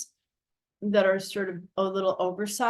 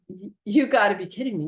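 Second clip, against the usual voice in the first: quick, louder retold disbelief; incredulous; 5 dB louder, faster than usual. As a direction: blurt it in mild mock amazement. Retold disbelief at the woman's promise.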